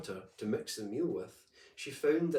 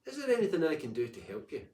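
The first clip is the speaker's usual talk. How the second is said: paddock voice; 5 semitones higher, faster than usual. Acted. Paddock offers help.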